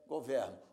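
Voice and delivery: "governo" falling, with open stressed e; open-vowel pronunciation. Shown as a demonstration. Teacher naming the verb's sound, open-e "governo". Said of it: "pronúncia aberta".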